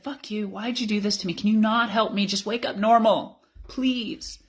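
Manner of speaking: retold desperate prayer, rising to a high please; anguished plea. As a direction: plead with God, close to tears. Retold tearful prayer cursing God.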